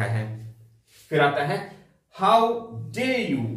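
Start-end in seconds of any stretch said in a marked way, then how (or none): 2.2-3.5 a touch of anger on How dare you; indignant but not raised; mild mock anger. Shown as a demonstration. Teacher showing pupils an angry exclamation, mildly. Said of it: "किसी पे गुस्सा आए".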